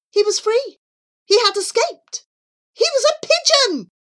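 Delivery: high, exultant narration building to a peak; elated. A narrator's reading. Narrator sharing Charlie's joy at being free, elated. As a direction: burst with triumph, pitch climbing.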